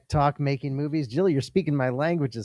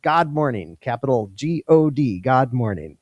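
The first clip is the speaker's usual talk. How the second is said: GOD stressed in place of "good"; emphatic greeting. Retold or imitated. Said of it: "Dear Beverly emphatically said".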